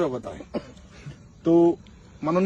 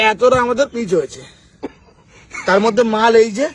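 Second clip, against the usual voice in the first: amused scoffing laugh; 4 dB louder than usual. Real, not acted. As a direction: laugh at how thin it is. Laughing at thin pitch layer.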